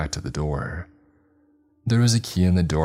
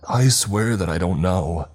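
shouted in fear; 2 semitones higher than usual. Acted. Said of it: "he shouted".

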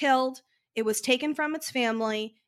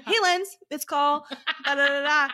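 less enthusiastic. Retold or imitated. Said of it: "the second round is less enthusiastic".

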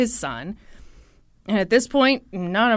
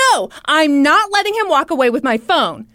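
mock agitated refusal, raised voice; freaking out; 4 semitones higher, 5 dB louder than usual. Woman chasing her supposed phone, freaking out. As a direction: act out a worked-up woman refusing loudly. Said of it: "freaking out about her stolen cell phone".

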